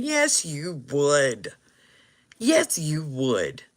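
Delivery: slow, firm repeat of Yes; slow insistence. Real, not acted. Telling doubters slowly, firmly insisting. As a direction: lean on Yes, drawn out. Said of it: "insistent repeat".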